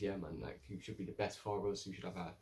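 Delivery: understated gentle pitch to the council; soft persuasive. Retold or imitated. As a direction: coax them quietly toward the choice.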